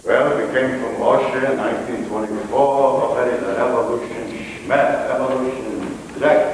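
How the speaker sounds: imitated Russian immigrant accent; father's Russian accent. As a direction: put on an old-country Russian accent. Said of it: "and he said".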